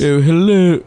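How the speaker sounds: a hint of celebrity impression on a greeting; George Takei. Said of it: "I'm doing George Takei".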